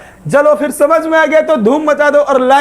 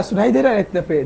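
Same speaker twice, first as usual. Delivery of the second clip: soft voice; 2 semitones lower, 5 dB quieter than usual. Shown as a demonstration. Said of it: "धीरे धीरे बोल रहे हैं".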